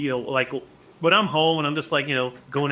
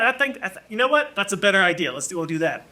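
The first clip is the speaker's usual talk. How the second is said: sudden change of heart; 5 semitones higher, faster than usual. Retold or imitated. Kid changes his mind.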